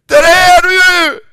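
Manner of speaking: high, loud cry of relief; shouting in tears. Acted. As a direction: scream it out through tears. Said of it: "han skriker". (skrikande av gråt och lättnad)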